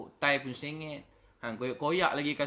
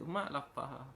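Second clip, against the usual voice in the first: put-on quiet child plea; 5 dB quieter, slower than usual. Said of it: "Budak tu kata".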